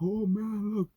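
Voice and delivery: high, loud gushing awe; hammed-up envious wonder, drawn out at the end; mock gushing. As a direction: gush like someone dazzled by a big house. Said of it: "I'm like".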